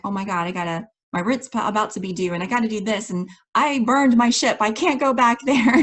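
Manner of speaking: retold freak-out. Coach reliving rent coming due, mounting mock panic. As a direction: start near normal, escalate into an acted freak-out. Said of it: "I had this little freak out moment".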